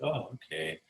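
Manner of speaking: soft, unbothered acted reply; super calm. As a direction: play it cool and keep it quiet. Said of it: "stay super calm".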